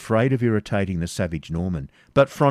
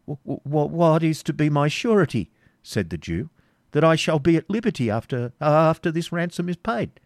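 higher, halting fearful question; stammering Isaac; 8 semitones higher than usual. Acted. Isaac nervously asking the Baron for surety. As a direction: stumble over the words.

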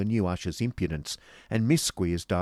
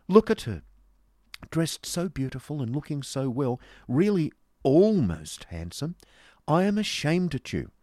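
high, indignant scolding; pettish reproach; 8 semitones higher, 5 dB louder than usual. Acted. Miss Price shames Nicholas over her friend, pettishly. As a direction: scold in a raised, huffy voice.

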